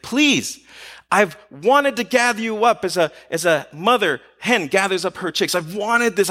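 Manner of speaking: a touch of heartfelt begging; pleading. Acted. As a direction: appeal to them as if longing to gather them in. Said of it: "was always pleading with people".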